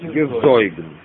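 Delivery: Гезойген with a secondary accent on зой; weaker stress. Shown as a demonstration. Teacher explaining stress to students, weaker accent in Гезойген. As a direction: let зой in Гезойген take a lesser stress. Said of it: "Более слабое ударение".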